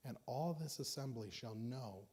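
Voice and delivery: measured, solemn reading of the verses; scripture reading. Acted. Preacher reading David's words to the congregation, solemn. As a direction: read the old words with weight.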